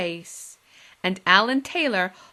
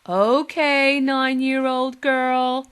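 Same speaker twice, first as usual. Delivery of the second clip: put-on drunk men; 5 semitones higher, 6 dB louder, much slower than usual. Menfolk drunkenly agreeing.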